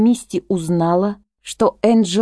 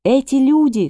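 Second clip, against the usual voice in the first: high sharp accusation; Misty accusing Grace and Harrow; accusing shout; 7 semitones higher than usual. A narrator's reading. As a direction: point and cry out. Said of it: "кричит Мисти".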